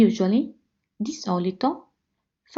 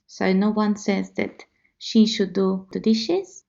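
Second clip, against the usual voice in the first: ordinary delivery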